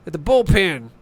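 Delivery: slow mock grumble of a sixty-five-year-old; old man. Skinny old man heads out to the bullpen, lightly voiced grumble. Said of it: "He's like".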